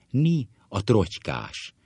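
mildly surprised greeting. Acted. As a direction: spot an old chum with a touch of surprise.

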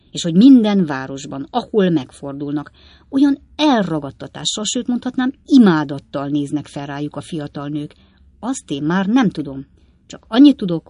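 a hint of an old man holding forth; philosophising old father. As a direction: expound it with relish to your son. Old Weller philosophises on coachmen.

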